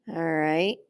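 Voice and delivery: ordinary talk, nothing marked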